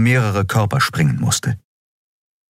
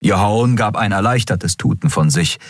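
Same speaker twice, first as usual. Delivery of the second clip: ordinary delivery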